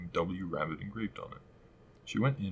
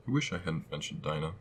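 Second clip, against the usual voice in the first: melancholy. Acted. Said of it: "in a melancholy tone".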